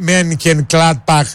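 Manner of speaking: slow, spelled-out Mönchengladbach; διόρθωση προφοράς. Shown as a demonstration. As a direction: say Mönchengladbach slowly, part by part. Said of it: "Δεν λέγεται Mönchengladbach". (Mönchengladbach αργά, συλλαβιστά)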